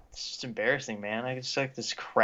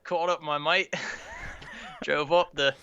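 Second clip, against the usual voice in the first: put-on Aussie accent slipping into English; badly faked Australian storytelling; put-on Australian accent drifting British; attempted Australian accent. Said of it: "going a little bit into an English".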